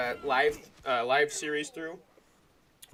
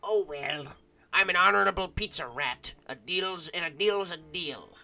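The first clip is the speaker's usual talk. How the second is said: rat voice; 2 semitones higher than usual. Acted. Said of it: "Did I do a good rat voice?".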